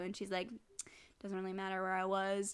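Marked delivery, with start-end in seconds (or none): 1.2-2.5 quiet, offhand brush-off; lightly acted nonchalance; nonchalant. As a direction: retell it as a soft, careless shrug. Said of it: "a little nonchalant".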